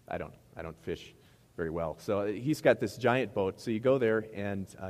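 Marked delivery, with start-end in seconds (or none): 2.0-4.3 slow, loud build on the giant boat; excited storytelling. Acted. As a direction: stretch the words for effect.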